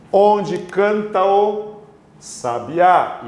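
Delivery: slow reading gliding "canta o" together as one; measured verse with "canta o" linked; elision demonstration. Shown as a demonstration. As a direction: run the final vowel of "canta" straight into "o", then "sabiá". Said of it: "Isto é uma elisão".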